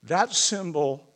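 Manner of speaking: hushed, halting, with long pauses; holding back real emotion between short phrases; choked up. Real, not acted. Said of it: "Sorry if I'm getting a little choked up".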